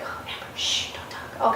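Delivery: playful whisper imitating coaches; whispered shush. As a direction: hush her with a mock whisper. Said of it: "the other coaches, like".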